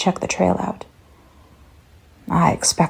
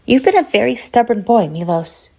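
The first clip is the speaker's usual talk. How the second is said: higher, a hint of a mocking little girl; a touch of a sing-song child scolding; lightly voiced creepy child; 5 semitones higher than usual. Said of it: "in a child's voice".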